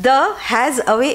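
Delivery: "The has away" slow, each word set apart; unstressed words. Shown as a demonstration. Teacher listing unstressed words, "The has away" spaced out. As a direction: list "The has away" slowly without special weight. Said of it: "অতটা stress দিয়ে হলো না".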